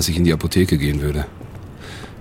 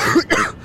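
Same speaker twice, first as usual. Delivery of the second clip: choking cough; 7 semitones higher than usual. Acted. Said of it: "ich schnappte nach Luft".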